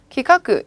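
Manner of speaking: "기카크" as ki-ka-ku, each syllable clear; teacher reading out "기카크" as kikaku; Japanese on-reading. Shown as a demonstration. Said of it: "이렇게 읽어주시면 되고요".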